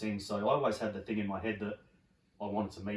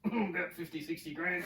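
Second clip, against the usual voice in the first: "About fifty, sixty grand" said higher with a guilty laugh; sheepish laugh; 9 semitones higher than usual. Retold or imitated. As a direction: admit the sum sheepishly, laughing.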